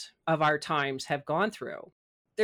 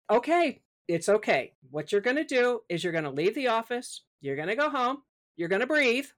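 retold self-reassurance; 4 semitones higher than usual. Self-talk calming herself.

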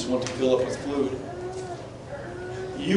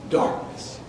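hushed, breathy whisper of darkness; 6 dB quieter than usual. Acted. Preacher making the congregation picture darkness, hushed whisper. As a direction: let it fall to a whisper.

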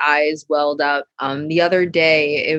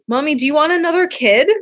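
lightly voiced child, higher and unsure; small boy asking; 9 semitones higher than usual. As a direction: ask it like a worried little son. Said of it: "he's like".

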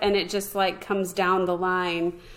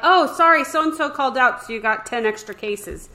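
mock boss; 4 semitones higher than usual. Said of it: "They're like".

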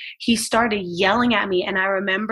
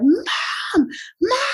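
put-on high, louder crying call of a frightened child; retold crying kids; 11 semitones higher, 3 dB louder than usual. Mother retelling her sons crying out for her, high tearful calls. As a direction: cry out for mom like a scared kid. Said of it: "and they were like".

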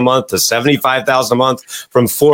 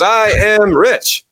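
high, slow doubtful crowd voice; mock the audience saying it without belief; 8 semitones higher, much slower than usual. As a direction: audience repeating it slowly in a high voice. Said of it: "And everybody goes".

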